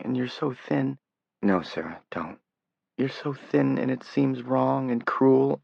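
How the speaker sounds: fighting back tears over his thin legs; tearful. Acted. Sarah near tears to Johnny in hospital, pitched high and pleading. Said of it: "She was beginning to cry again now".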